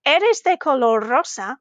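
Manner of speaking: "Eres de color rosa" said as a statement, without rising at "rosa"; "Eres de color rosa" as a plain statement; statement intonation. Shown as a demonstration. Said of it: "if the question marks weren't there".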